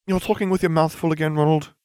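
quick, high-pitched scolding; mild chiding. A narrator's reading. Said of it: "Hermione chided".

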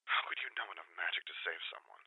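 very soft, quick question; secretive undertone; hushed. A narrator's reading. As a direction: ask it almost in a whisper. Reluctant sister, hushed on phone.

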